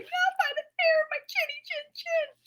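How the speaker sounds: pigs whispering in fright; scared whisper. Acted. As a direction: whisper defiantly while hiding.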